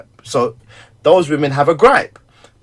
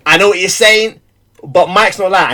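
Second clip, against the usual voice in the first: firm defence; 2 semitones higher, 4 dB louder than usual. Retold or imitated. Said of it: "didn't once say".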